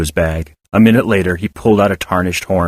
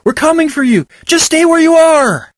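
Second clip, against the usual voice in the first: yelling; 4 dB louder than usual. Acted. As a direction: shout through the forest to the children. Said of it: "one of the voices yelled".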